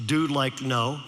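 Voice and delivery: low, soft mock Valley dude; Valley teenager. Sophomore admits not reading it, soft Valley imitation. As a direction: imitate a sheepish Valley kid, dropping low. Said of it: "you know how they talk".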